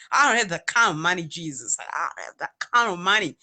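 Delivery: a put-on American accent pleading no money. Telling Jesus she cannot pay, put-on American accent. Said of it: "American accent".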